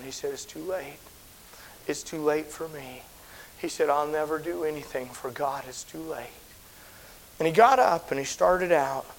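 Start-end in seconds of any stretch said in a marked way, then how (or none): 0.3-6.3 much softer, defeated words; retold, quiet despairing voice; hopeless sobbing. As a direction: let it fall apart softly. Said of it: "he just started sobbing".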